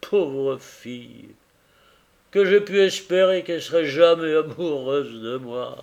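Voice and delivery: earnest husband pouring out his regret; a man blaming himself for his blindness; grieving carrier. Acted. Carrier tells Tackleton of his wife's sorrow, earnest and grieving.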